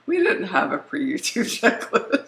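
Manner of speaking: gum in her mouth as she talks; chewing gum. Real, not acted. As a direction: speak while chewing gum. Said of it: "I'm, like, gnawing on that stuff".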